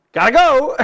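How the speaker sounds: a high, loud, laughing exit line; flustered lady. Retold or imitated. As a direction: hurry off, laughing as you say it. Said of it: "And then she goes".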